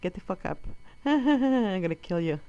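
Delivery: threat laughed through a fake smile; laughing threat. Mother to son, laughing a threat in front of strangers.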